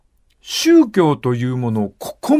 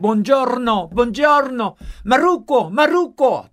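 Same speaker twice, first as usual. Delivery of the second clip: put-on higher, rising plea of an old Italian woman; mock grandma calling out; 8 semitones higher than usual. Old Italian woman calling for her dead father, mock plea. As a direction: call the name again and again, pitch climbing.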